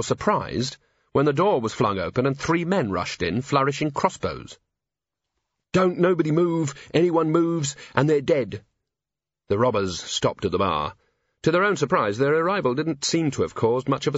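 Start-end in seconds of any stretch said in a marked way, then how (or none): 5.7-8.6 a robber trying to sound dangerous; robber's threat. Acted.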